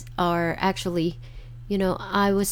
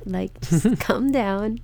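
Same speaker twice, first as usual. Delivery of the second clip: slow soothing self-talk; calm; slower than usual. Shown as a demonstration. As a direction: ease yourself down slowly. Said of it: "your heart rate doesn't have to go up".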